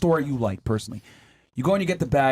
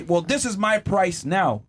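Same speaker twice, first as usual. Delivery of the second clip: mock haughty; slower than usual. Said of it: "y'all will sit there and say".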